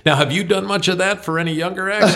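playing the host, high and upbeat; imitating Howard Stern. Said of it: "Stern said to him".

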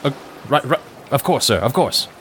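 a touch flustered, obeying orders; stammering yes-sir soldier. Acted.

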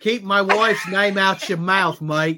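a light, slow Australian drawl as a boxing kangaroo; playful Australian accent for the kangaroo, said slowly; mock Australian accent. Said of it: "do the kangaroo accent again".

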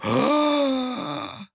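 put-on very high childish gasp of oh; shocked kids. Children shocked at the new Koyang race. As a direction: gasp like startled little kids. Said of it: "you hear the kids go".

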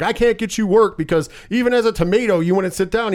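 lightly acted exasperation; exasperated agent. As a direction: play an agent fed up with a client. Acted agent scolding a difficult actor.

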